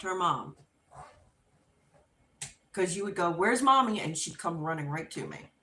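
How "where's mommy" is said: raised, louder pet-owner call; calling the dog. Retold or imitated. Teller demonstrates asking the dog to find mommy, calling. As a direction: call out to a dog, lifted in pitch.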